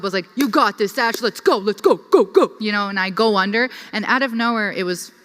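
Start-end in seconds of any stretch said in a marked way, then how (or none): 0.4-2.5 rising self pump-up, louder at the end; pep talk to herself. Retold or imitated. Diver pumping herself up before going under. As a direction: hype yourself up before the dive. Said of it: "I was, like, talking myself up".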